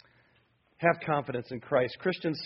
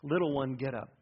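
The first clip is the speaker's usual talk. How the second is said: soft, gentle wake-up call; Jesus gently rousing the little girl; tender; 3 semitones lower, 5 dB quieter than usual. Shown as a demonstration. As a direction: coax a sleeping child awake. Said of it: "Feel his compassion".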